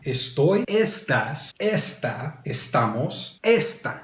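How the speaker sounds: "estás" and "esta" with the stress on ES, the first syllable; unaccented mispronunciation. Shown as a demonstration. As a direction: read out the forms with "esta" stressed wrongly as ES-ta. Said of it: "this is how they sound right now".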